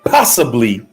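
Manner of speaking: low, slow delivery broken by long pauses. Shown as a demonstration. Speaker restating what narcissists seem to offer, slow and low. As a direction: let each hedge stand alone, slowly and low. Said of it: "I said that slow like that".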